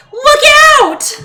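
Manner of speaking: imitating a backseat-driving daughter shouting a warning; imitating a child yelling. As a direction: yell it like a little kid sounding an alarm. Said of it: "she just kept yelling at me".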